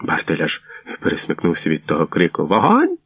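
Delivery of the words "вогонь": sharp high shout rising steeply; barked order. A narrator's reading. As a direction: bark out a firing command. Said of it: "гаркнув він". (різкий високий наказ)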